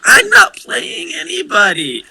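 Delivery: accused hobbit protesting near tears; upset protest. Acted. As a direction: plead innocence, close to tears.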